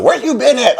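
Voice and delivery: high-pitched, mock demanding question; retold reproach. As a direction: imitate a partner calling you to account. Retelling partner's demand on finally connecting.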